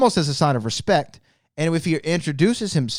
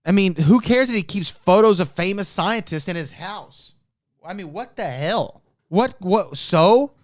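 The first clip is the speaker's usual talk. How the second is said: too emotional; 4 semitones higher than usual. Real, not acted. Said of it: "I'm getting a little bit too emotional".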